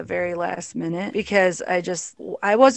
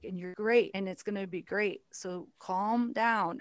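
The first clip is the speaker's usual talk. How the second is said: softer, soothing, slowing down at the end; quiet reassurance; 7 dB quieter than usual. Retold or imitated. Mentor steadying a panicking comic before her set, softly. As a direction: talk a nervous friend down gently.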